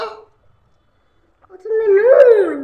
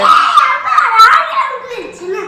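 excited laughing shout; 3 semitones higher, 6 dB louder than usual. Real, not acted.

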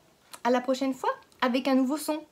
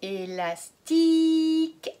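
Élastique said very slowly in four beats; slow syllable-by-syllable; 4 semitones higher, 4 dB louder, much slower than usual. Shown as a demonstration. Teacher counts syllables of Élastique for children. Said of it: "on entend I".

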